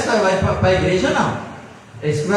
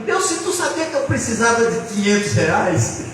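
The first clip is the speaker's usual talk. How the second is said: crying prayer retold; 6 semitones higher than usual. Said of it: "de madrugada eu chorava".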